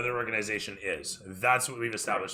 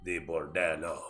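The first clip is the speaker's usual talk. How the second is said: slow, measured servant's voice; formal aide; slower than usual. Acted. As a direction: speak each word deliberately for your master.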